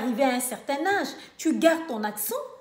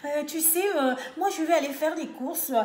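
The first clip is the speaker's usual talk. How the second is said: mock white French accent with hesitant euhs; imitated white French accent; 3 semitones higher than usual. Mocking those ashamed of their accent talking about errands, imitated white French accent. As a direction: ape a Parisian French accent in mockery. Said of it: "seulement de l'accent des, des, des Blancs".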